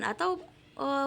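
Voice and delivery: usual speaking voice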